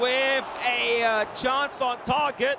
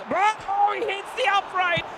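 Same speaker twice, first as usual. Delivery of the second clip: surprised; 6 semitones higher than usual. Real, not acted. Shot hits the upright.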